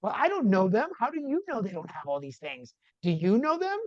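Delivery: retold cheeky kid talking back, pitch swooping up on the questions; mock-innocent backtalk, retold; smart mouth. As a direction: challenge the parent like a little smart mouth. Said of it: "a little smart mouth".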